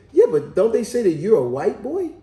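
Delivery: mother pressing. Retold or imitated. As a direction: imitate a mom pushing back. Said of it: "So then the mother said".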